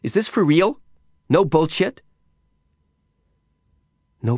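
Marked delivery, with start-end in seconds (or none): 0.0-2.0 high, rising, incredulous questions; disbelieving question. A narrator's reading. Girl told she can go, incredulous. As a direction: ask it high, needing to be sure.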